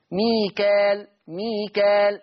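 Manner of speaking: ميكال with a plain natural-length a; natural madd. Shown as a demonstration. Teacher repeats ميكال for the class, even natural length. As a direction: hold ميكال evenly, no hamza. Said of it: "مد طبيعي".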